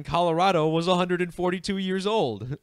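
barely holding it together; laughing. Real, not acted. Host reading the Colorado age number, breaking into real laughter. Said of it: "I don't know why I'm laughing so hard".

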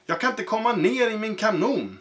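can't believe he's stuck; puzzled dismay. Acted. Cannon king stuck.

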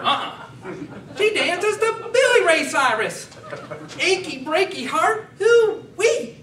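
high, loud yokel voice, slowed in places; Cletus about his dancing cat. Acted. Cletus brags about his cat, high loud hick voice. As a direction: ham it up high like a proud hick. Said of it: "I'm Cletus".

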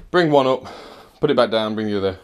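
breathless after lifting carpet; puffing between words; out of breath. Real, not acted. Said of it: "Sorry, I'm out of breath".

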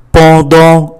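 "Pendant" with both vowels nasal, no hard n. Shown as a demonstration. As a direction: say both halves of "Pendant" through the nose. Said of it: "âm mũi". ("Pendant" đọc hai âm mũi)

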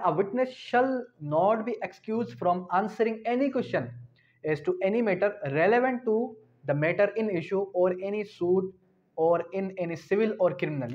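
slow formal reading of the law; statute reading. Shown as a demonstration. Law teacher reading out the statute, slow formal reading. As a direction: read the clause out, slow and formal.

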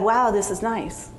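usual speaking voice

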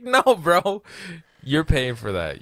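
a mock-indignant shout that starts high and settles back down; mild mock yell at a cheap customer; retold angry retort. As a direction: snap it back at him, half-joking outrage.

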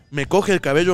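ordinary delivery, nothing marked

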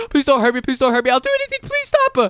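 high, panicked begging; scared pleading. Acted. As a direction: plead for your life. Begging a strange creature.

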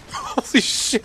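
breathy laugh-through whisper. Real, not acted. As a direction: gasp it out between laughs. Laughing after the tank attack.

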